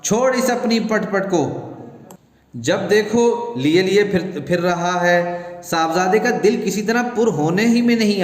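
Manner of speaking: a fed-up mother telling off her son; scolding wife. Acted. Wife scolds her son for his noisy toy, exasperated and shrill-pitched.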